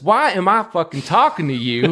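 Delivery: mildly hammed-up frustration; exasperated marshal. Marshal exasperated at talking machine.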